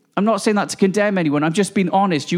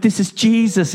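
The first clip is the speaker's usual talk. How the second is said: creepy voice. Retold or imitated. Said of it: "in a really creepy voice".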